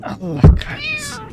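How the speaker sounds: very high, slow falsetto curse; mock dramatic curse. Real, not acted. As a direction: squeal it like a cartoon. Oyunda ölünce. (yüksek perdeden abartılı lanet)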